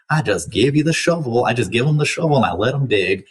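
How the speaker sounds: a hint of a Southern accent in a quoted line; Southern accent slipping into the quote. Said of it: "I don't know why I have an accent there".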